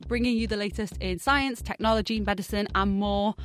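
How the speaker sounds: upbeat podcast host intro; cheerful welcome to the show; bright curious science host. Acted.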